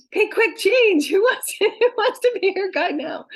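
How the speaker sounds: high, loud call to swap places; laughing, play-acted urgency; hurried mock scramble. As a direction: call it out like a frantic reshuffle. Voicing guides in a hurried scramble.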